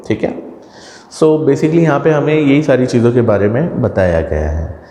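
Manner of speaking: ordinary talk, nothing marked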